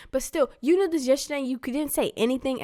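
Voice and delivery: retold indignant comeback; mad protest. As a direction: argue back, a touch accusing. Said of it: "I was just mad".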